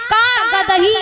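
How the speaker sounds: कागज ही punched out with a break inside; split-word emphasis. Shown as a demonstration. Storyteller asks what was written, split-word emphasis. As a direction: hit the का of कागज, then the rest. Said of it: "उसने क्या लिखा?".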